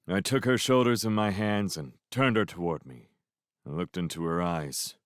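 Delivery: plain reading voice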